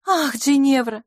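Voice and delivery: с лёгким вздохом, выше обычного; вздохнуть, обращаясь к подруге. A narrator's reading. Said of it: "вздохнула мисс Лафос". (со вздохом)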